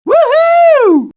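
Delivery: cheer. Acted. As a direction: whoop with glee. Cheering in game.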